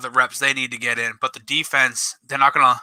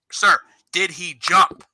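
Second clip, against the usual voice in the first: retold insistent yell; 5 semitones higher, slower than usual. Coach asking the ref for the sixth time, retold insistent yell. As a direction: re-enact spelling out the question to a ref. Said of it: "I'm, like, yelling at him".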